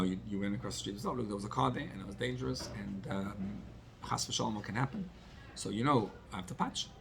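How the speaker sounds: retold calm, measured reprimand, a touch soft; calm telling-off. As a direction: explain it to the child calmly, voice kept down. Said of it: "I told him in a very calm way".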